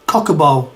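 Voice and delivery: Cockabo with a short O, cock-a-bo; Cockabo, short O in the middle; Cockabo pronunciation. Shown as a demonstration. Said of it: "are saying it as".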